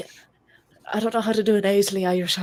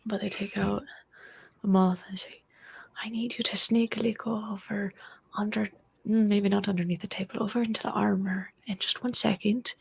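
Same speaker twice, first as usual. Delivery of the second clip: hushed secret instructions; whisper; 6 dB quieter than usual. Acted. Player whispering orders to her moth familiar, hushed. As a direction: whisper it so the guards won't hear.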